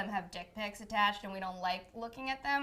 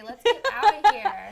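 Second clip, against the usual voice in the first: loud exclaim; 9 semitones higher, 12 dB louder than usual. Real, not acted. Wrapping up, hungry.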